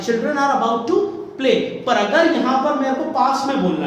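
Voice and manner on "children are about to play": slow model sentence. Shown as a demonstration. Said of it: "कि बच्चे खेलने वाले हैं".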